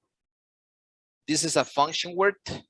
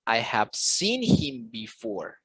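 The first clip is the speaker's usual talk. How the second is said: slow demo, voice raised on "seen" and the second syllable of "before"; stress on SEEN and BEFORE; 6 semitones higher, much slower than usual. Shown as a demonstration. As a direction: stretch out "seen" and "before", pitch lifted on each. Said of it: "it's gonna sound something like".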